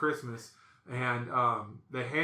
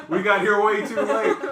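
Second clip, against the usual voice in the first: raised, loud comic despair; loud rueful mockery; 6 semitones higher, 10 dB louder than usual. Man to brother-in-law, loud rueful mockery. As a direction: call it out in mock exasperation. Mocking brother-in-law's late realization.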